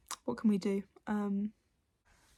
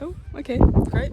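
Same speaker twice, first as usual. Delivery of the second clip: pleased surprise; 5 semitones higher, 10 dB louder than usual. Retold or imitated. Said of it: "I was like".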